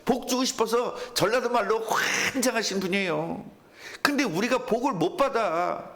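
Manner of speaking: ordinary talk, nothing marked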